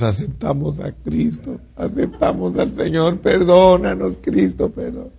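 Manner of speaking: soft, breaking plea for forgiveness; pleading prayer. Retold or imitated. The repentant soldiers pray for forgiveness, softly pleading. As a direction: beg Christ to forgive.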